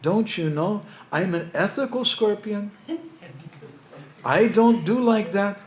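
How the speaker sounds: high, slow, put-upon pleading voice; sly scorpion. Acted. Scorpion protests his ethics to the doubtful camel, high and slow. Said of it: "And the scorpion said".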